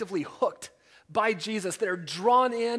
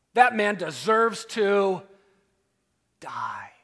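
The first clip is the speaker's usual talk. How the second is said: slow, loud build then die whispered; David pronouncing sentence, ending in a whisper; stunned verdict; 6 dB louder, slower than usual. Retold or imitated. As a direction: drop the last word to a hushed whisper.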